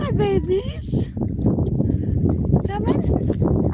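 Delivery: high, slow cooing call. Real, not acted. Owner coaxing her geese to swim: high cooing call. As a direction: coax them gently into the pond.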